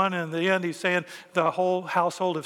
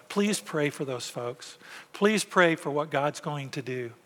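earnest plea; 3 semitones lower, 3 dB quieter, slower than usual. Real, not acted. Earnest appeal to congregation.

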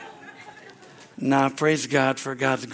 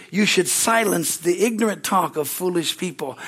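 scripture reading. Acted. Reads the translation aloud.

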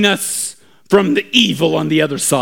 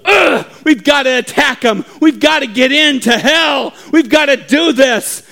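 high-pitched effortful urging; straining, tiring; 5 semitones higher, 3 dB louder than usual. Acted. Soldiers tiring at the gates urge on, straining. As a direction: push on through tiredness. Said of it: "we start to get tired".

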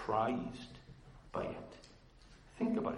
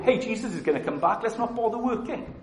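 mock carefree excuse; 8 semitones higher, 6 dB louder than usual. Voicing people who quit work.

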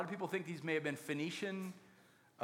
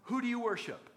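higher-pitched, lightly acted questioning; imitated interrogation; 4 semitones higher than usual. Sailors swamp Jonah with questions, mock interrogating. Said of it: "they decide to interrogate Jonah".

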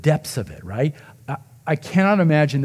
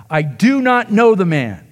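swearing denial; 5 semitones higher, 4 dB louder than usual. Retold or imitated. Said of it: "began to curse and swear".

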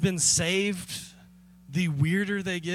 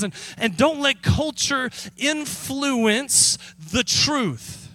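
fervent preaching; 4 semitones higher than usual. Retold or imitated. Paul pleading with the church, fervent and high. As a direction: urge them passionately to keep it simple. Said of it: "Paul is saying".

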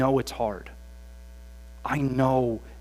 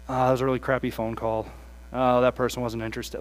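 deflated grumble; 4 semitones lower, faster than usual. Retold or imitated. Deflated after failed call.

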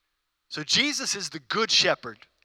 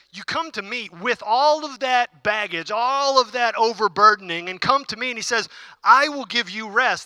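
rising preacher call; 4 semitones higher, 5 dB louder than usual. Acted. Preacher voicing Jesus's invitation.

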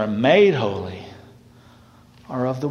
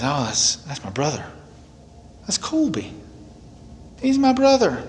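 proud claim; 3 semitones higher than usual. Pretend. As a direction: claim the little brother with pride. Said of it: "he actually looks down and says".

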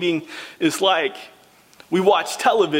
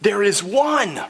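excited pointing; 2 semitones higher than usual. Acted. Elders pointing John to the worthy one, eager. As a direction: point and urge him to see. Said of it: "they point and they say".

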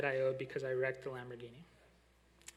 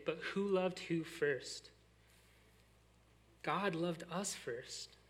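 slow emphasis; much slower than usual. Real, not acted. Preacher stresses the key point.

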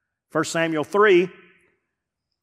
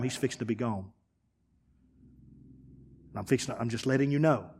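hushed and low, gently breaking bad news; quiet voice of God; 3 semitones lower, 6 dB quieter than usual. God quietly warning young Samuel, hushed. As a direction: speak softly like heavy news to a son.

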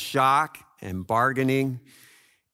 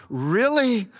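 God's voice; 8 semitones higher than usual. Retold or imitated. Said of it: "But God's going".

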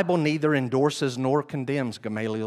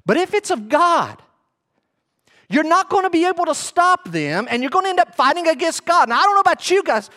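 louder, higher, building sermon delivery; full-force preaching, rising in pitch; fiery preaching; 6 dB louder than usual. Acted. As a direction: preach it hard to the congregation.

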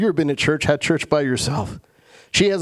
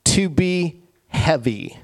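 slow, weighty; slower than usual. Shown as a demonstration. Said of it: "Here's what it literally means".

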